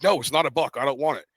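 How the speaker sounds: insistent mock refusal; arguing back. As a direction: argue back like a stubborn kid. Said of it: "I'm sitting there arguing with him".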